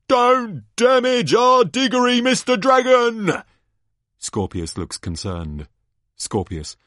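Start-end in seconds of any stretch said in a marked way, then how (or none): 0.1-3.4 high, loud mock plea; commentator's hammed-up collective cry; crowd crying out. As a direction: wail it like a swooning crowd of fans. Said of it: "They cry as one".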